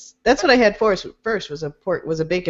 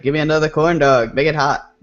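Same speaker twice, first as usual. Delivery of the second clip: sexy voice. Pretend. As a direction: purr it seductively. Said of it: "That's my sexy voice".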